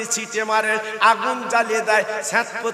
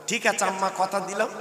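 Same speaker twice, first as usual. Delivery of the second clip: quiet promise; 2 semitones lower, 6 dB quieter than usual. Acted. Sons quietly promise their mother.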